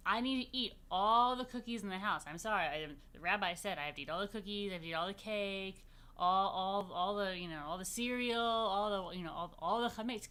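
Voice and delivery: loud, eager begging to parents; pleading kid. Pretend. Kid begging parents to eat the chametz, loud and eager. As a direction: beg like a kid who wants all the cookies. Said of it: "going to your parents and saying".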